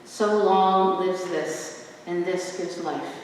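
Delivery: measured sonnet recitation with long pauses between lines; poetry reading. Acted. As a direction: read each line like a sonnet before an audience. Reads Shakespeare sonnets aloud.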